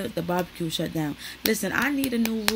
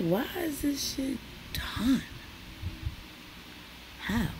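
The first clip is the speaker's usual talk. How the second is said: mock disbelief; 7 semitones higher, 5 dB quieter, slower than usual. Quoting own reaction, party ended.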